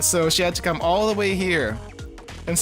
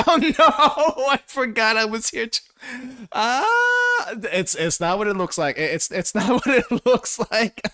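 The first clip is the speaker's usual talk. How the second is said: put-on flustered anime girl; 8 semitones higher than usual. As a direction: squeal it out in a fluster. Flustered girl in visual novel scene.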